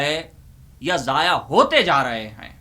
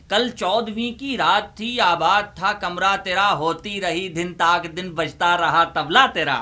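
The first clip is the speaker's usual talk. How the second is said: mushaira recitation; 3 semitones higher than usual. Acted. Uncle recites a parody ghazal to students, declaiming.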